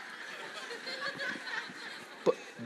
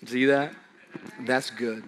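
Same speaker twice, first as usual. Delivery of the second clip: much lower and softer, pleased; pleased deep murmur of the creator; God's voice; 7 semitones lower, 5 dB quieter than usual. Pretend. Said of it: "God's like".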